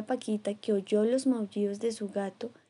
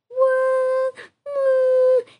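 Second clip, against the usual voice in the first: very high, loud yelping woof; barking; 9 dB louder than usual. Acted. Girl on the branch yelping woof high and loud. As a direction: yap like a small dog.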